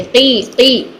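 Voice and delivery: की slow and thin, no heaviness; light qi. Shown as a demonstration. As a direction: draw out की plainly without thickness. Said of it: "ये बोलेंगे". (की बारीक और धीमे)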